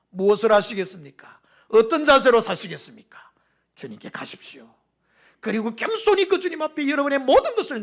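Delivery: rising, pleading pulpit voice; impassioned sermon delivery; fervent preaching. Acted. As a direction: preach it with swelling fervor.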